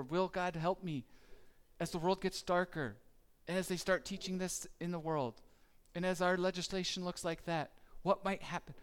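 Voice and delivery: fast, worried rush of questions; lightly played nervous believer; mock anxious fretting. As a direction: hurry through the fears, half-hammed.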